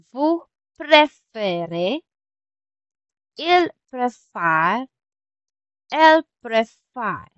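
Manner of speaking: slow, drawn-out "préférez" and "préfère"; careful pronunciation demo. Shown as a demonstration. Teacher showing how the accents change the sound, slow careful demo. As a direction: stretch "préférez" and "préfère", each pronoun set apart. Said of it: "nag-iiba-iba yung sound niya".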